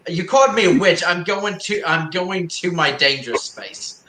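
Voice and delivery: whiny, half-laughing mock reply. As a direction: play it like a pouty kid. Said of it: "You can just imagine if you said that".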